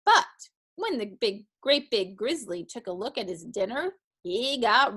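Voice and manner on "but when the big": plain reading voice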